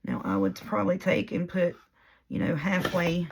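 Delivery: hoarse, voice giving out; losing voice. Real, not acted. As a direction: talk through a voice that's going hoarse. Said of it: "now I can't even talk, I'm losing my voice".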